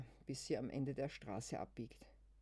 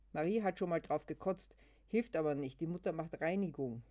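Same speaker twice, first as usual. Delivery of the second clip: excited telling; 3 semitones higher, 5 dB louder than usual. Acted. Luise erzählt aufgeregt.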